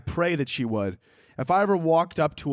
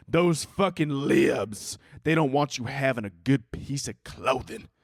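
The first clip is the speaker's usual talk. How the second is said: hammed-up indignant congregant, pitched high at first; mock-preachy outrage, stretched-out words; outraged churchgoer; 3 semitones higher than usual. Congregant calling out the pastor over his Balenciaga jacket, outraged. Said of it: "someone in the congregation was like".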